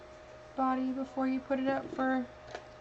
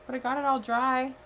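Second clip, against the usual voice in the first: into a fan; 7 dB louder than usual. Real, not acted. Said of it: "It's really loud here".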